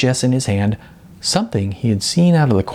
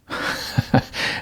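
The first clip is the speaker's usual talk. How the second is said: breathy laugh; 6 dB quieter than usual. A narrator's reading. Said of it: "Then the clerk laughed".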